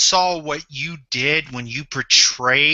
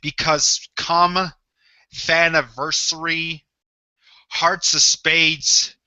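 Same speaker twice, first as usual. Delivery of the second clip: wrestling promo threat. Acted. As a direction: drag it out like a final threat.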